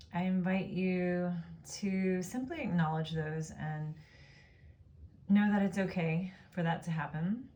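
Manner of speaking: calm, unhurried Yoga Nidra guidance; guided meditation. Real, not acted. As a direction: guide them gently into rest, pausing between phrases. Leads a Yoga Nidra practice.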